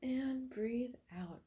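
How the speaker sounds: soft whispered breath cue. Acted. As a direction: whisper it gently.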